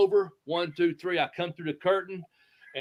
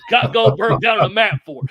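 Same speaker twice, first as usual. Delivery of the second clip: loud, higher, breaking up with laughter; laughing mock disbelief; 6 semitones higher, 9 dB louder than usual. Boss wondering why Bobby floored Goldberg, retold laughing. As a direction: laugh through the imagined question. Laughs through boss's imagined question.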